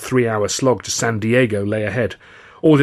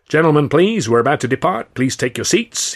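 raised, louder official's call; 5 semitones higher, 4 dB louder than usual. A narrator's reading. Guard to passengers as the train is about to depart, calling out. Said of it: "he called".

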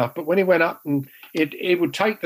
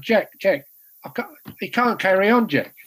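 higher-pitched imitation of hampered pleading; stitched-lip speech; 5 semitones higher than usual. Injured keeper appeals to Jack, higher hampered voice. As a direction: plead as if your lip is half sewn up. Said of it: "now I'm talking like this".

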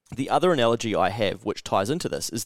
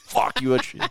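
exasperated outburst; 14 semitones higher than usual. Retold or imitated. Exasperated retort to trainer.

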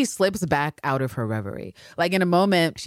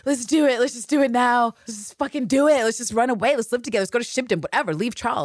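much higher, urgent and eager; pleading Anne Lister; 9 semitones higher than usual. Retold or imitated. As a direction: beg her to run away. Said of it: "she literally said to Mariana".

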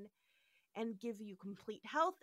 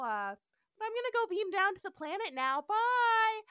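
airy blissed-out Uhura; 6 dB louder than usual. Retold or imitated. Blissed-out Uhura voiced in recap.

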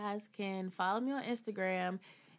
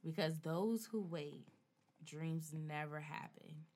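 sultry voice. Acted. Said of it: "you gonna put a sultry voice on".

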